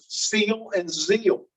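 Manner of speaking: slow, careful seal and zeal; minimal pair demo. Shown as a demonstration. Teacher sounding out seal and zeal for students. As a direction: say "seal and zeal" slowly, each word clear, s against z. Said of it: "Are those two different words?".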